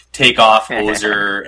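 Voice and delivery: put-on drawn-out, slow Canadian accent with extra punch; Strange Brew Canadian. Host mocking his own accent after beers, exaggerated Canadian. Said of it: "like straight up strange brew".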